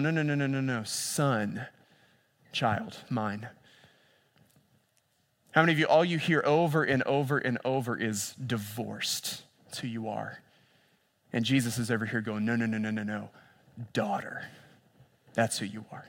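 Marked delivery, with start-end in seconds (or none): 0.0-3.5 gentle. Acted. Jesus voiced gently. 12.4-16.0 soft, near-whispered reassurance, much quieter; whispered tenderness. Acted. Jesus voiced softly, whisper end.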